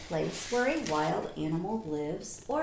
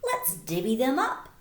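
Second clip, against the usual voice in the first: badger with a grin; 2 semitones higher, 4 dB louder than usual. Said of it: "Badger says with a grin".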